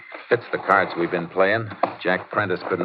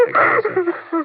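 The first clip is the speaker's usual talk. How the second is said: crying; 6 dB louder than usual. Acted. Crying widow being calmed.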